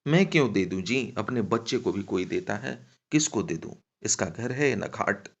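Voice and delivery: worked-up woman arguing back; agitated protest. Acted. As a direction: protest hotly, refusing to give in. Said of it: "वह छटपटा गई".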